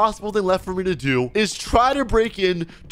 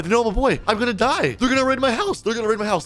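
repeated lines climbing higher; panicked; 4 semitones higher, faster than usual. Pretend. Player expecting a raid on his house, panicked. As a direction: spiral upward into played-up panic.

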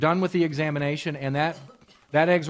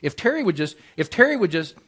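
mild mock grumbling, building; 2 semitones higher, 4 dB louder than usual. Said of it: "I say".

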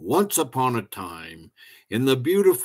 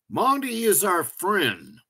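higher-pitched, lightly voiced kids; children protesting; 8 semitones higher than usual. A narrator's reading. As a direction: stand up for a friend in a high child's voice. Children defend their friend to parents.

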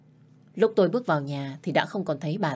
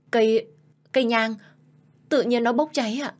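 frightened stammer; 6 semitones higher, 4 dB louder than usual. Acted. Frightened wife explains burning incense.

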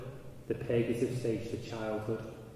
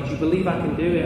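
higher, louder, quick challenge to a crowd; raised voice, imitating a showman's shout; retold shout; 6 semitones higher, 6 dB louder, much faster than usual. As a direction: call out to everyone as the daredevil. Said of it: "he's shouting at everybody".

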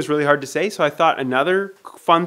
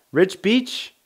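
questioning rise; 7 semitones higher than usual. Shown as a demonstration. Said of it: "the hardest name".

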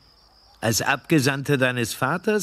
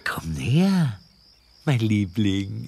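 whisper; 2 semitones lower than usual. Acted. Villain whispering to lure his visitor closer. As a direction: draw him in with a hushed whisper.

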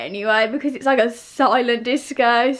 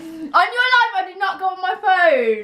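higher, insistent oath; emphatic denial; 5 semitones higher than usual. Real, not acted. Promising her friend she didn't cheat, insistent. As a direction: swear your innocence, pitch up.

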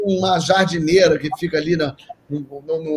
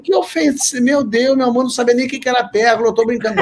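higher, hurried retold pleading; apelo exasperado; 6 semitones higher than usual. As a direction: plead that it was only a joke. Husband pleading with offended wife. (súplica apressada e exasperada, encenada)

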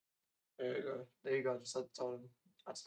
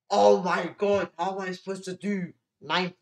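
flustered panic; 6 semitones higher, 12 dB louder than usual. Real, not acted. Panicking over mental maths.

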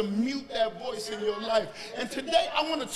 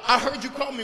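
put-on eager young Samuel; 3 semitones higher, 4 dB louder than usual. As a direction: report in eagerly. Acts boy running to Eli.

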